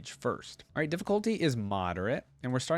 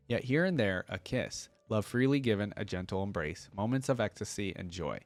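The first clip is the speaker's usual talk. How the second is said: measured poetic reading voice; hymn reading. Acted. Vlogger reciting the lost hymn to viewers, poetic reading. Reads hymn text aloud.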